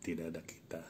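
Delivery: measured poem reading with long pauses; unhurried, deliberate verse delivery; poetry recitation. Acted. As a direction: recite it line by line, letting each phrase hang. Recites own short poem.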